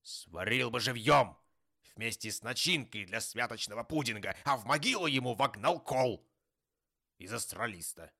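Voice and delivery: forceful outraged tirade with loud bursts; indignant. A narrator's reading. Scrooge wishing punishment on merrymakers, indignant. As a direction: spit out the grisly threats in indignation. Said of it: "негодующе продолжал Скрудж".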